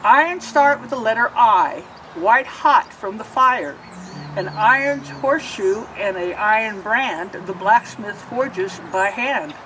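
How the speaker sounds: put-on lilting rhyme read aloud to kids; reading to children. A narrator's reading. Librarian reading a picture book to children, lilting. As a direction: read each verse like storytime.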